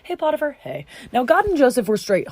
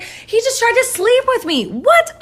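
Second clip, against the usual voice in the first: pitched way up, slow and theatrical; high dramatic accusation; 12 semitones higher, 3 dB louder, slower than usual. Acted. Wife telling Potiphar, high and theatrical. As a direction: squeal it out, then a shocked yelp.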